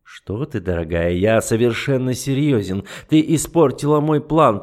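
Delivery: lightly voiced icy duke, mocking; an understated sneer; a hint of the cold duke. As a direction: toy with her calmly. The duke's cold voice.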